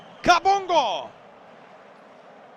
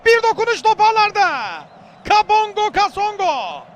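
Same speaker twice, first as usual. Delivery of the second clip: screaming football commentator; 3 semitones higher, 3 dB louder than usual. Real, not acted. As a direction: shout the goal and scorer. Goal call in match commentary.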